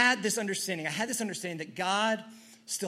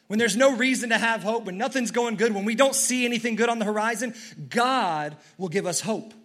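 preaching; 3 semitones higher, 4 dB louder than usual. Real, not acted. Preacher rising in intensity.

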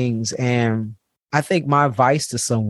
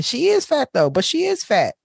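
much higher, stubborn mother's voice; mom insisting; 11 semitones higher than usual. Retold or imitated. Mom on the phone insisting to the aunt, in a much higher, stubborn voice. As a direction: press the point like a mean mom.

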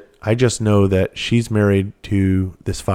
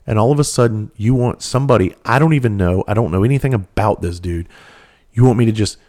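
angry. Retold or imitated. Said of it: "I was fucking furious".

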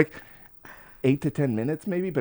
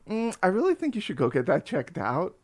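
higher-pitched, gently retold wife's voice; wife's urging; 7 semitones higher than usual. Wife nudging him to see a doctor, imitated higher urging. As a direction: lift the voice to imitate a concerned wife. Voicing concerned wife's advice.

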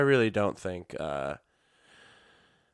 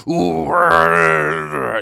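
loud, high drawn-out "ooh"; mock battle noise; 7 semitones higher, 8 dB louder than usual. Imitating a politician who loves to attack, loud blustering noise.

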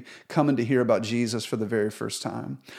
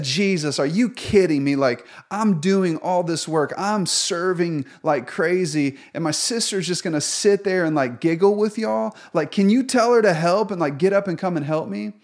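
exasperated complaint; 4 semitones higher than usual. Retold or imitated. Martha complains to Jesus.

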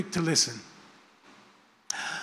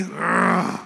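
disgusted grunt. Retold or imitated. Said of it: "You don't have to be".

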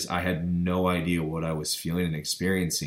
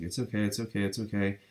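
softer, slightly raised reassuring voice; imitated reassurance; 3 semitones higher, 4 dB quieter, faster than usual. Friend on the phone calming a panicking caller, soft imitated reassurance. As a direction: repeat it quickly and softly to soothe. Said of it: "She's like".

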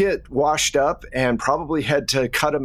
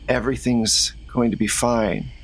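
Rose; 2 semitones lower than usual. Acted. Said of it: "And she goes".

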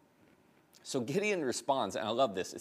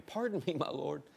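timid polite; 3 semitones higher than usual. Retold or imitated. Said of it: "There he goes again".

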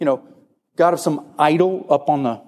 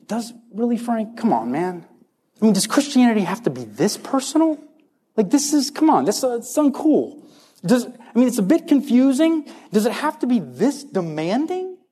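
whining doubter; 4 semitones higher than usual. Retold or imitated. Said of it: "you say things like this".

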